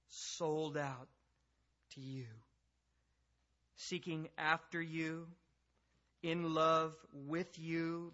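earnest, measured prayer with long pauses. Real, not acted. Preacher asking God to teach the congregation, prayerful. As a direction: draw out the petitions, phrase by phrase.

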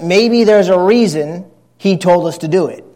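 dryly sarcastic, as if merely suggesting it. Real, not acted. Preacher needling the congregation over God's command, sarcastic. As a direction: offer the obvious as an innocent little thought. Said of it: "Sorry, the sarcasm is already starting".

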